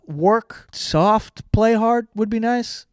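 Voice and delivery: "soft" и "play" выделены, slogan twisted with relish; stress on soft and play. Shown as a demonstration. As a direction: lean on "soft", then "play". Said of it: "reworked slogan".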